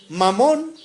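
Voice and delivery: Mamón with the accent on the ó; Mamón, rising onto the stressed ó; stress on final syllable. Shown as a demonstration. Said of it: "con acento en la O".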